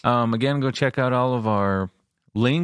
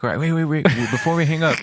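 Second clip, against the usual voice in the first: laughing mock interruption; 5 semitones higher, 3 dB louder than usual. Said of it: "And you're like".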